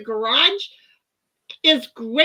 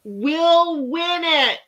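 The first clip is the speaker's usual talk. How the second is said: mock voice; 4 semitones higher, 4 dB louder, much slower than usual. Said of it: "M J is like".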